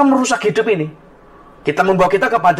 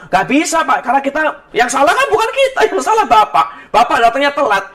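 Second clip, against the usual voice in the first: higher-pitched mock argument; retold staff rebuttal; 5 semitones higher than usual. Airline staff blames late passenger, retold rebuttal. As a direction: argue back like airline staff, lightly acted.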